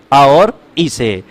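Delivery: drawn out and low, each vowel separate; slow deliberate recitation; slow spelled-out answer. Shown as a demonstration. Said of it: "ए को देखो बना किससे है".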